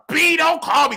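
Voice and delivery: high, loud mock cussing out; retold cussing. Telling off his sister on the phone, retold angry cussing. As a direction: cuss them out with bleeped words, high and loud. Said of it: "cuss out like a dog".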